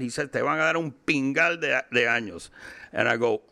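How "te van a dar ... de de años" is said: put-on higher-pitched, thick Cuban-accented Spanish; super Cuban accent. Cuban lawyer delivers bad news to client, super Cuban accent. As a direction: imitate a very Cuban street Spanish. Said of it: "like in a super Cuban accent".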